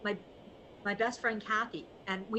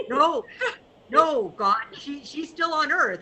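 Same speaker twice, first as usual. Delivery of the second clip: mock protesting Joe; 3 semitones higher, 6 dB louder, slower than usual. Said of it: "And Joe said".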